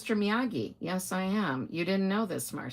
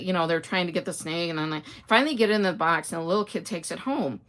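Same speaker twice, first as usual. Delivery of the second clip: ordinary talk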